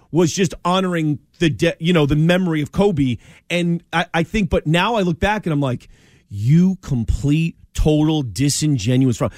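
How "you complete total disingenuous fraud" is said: slow, deliberate accusation; measured, emphatic telling-off; scornful denunciation. Acted. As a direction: draw out each word of the insult. Acted denunciation addressed to absent LeBron.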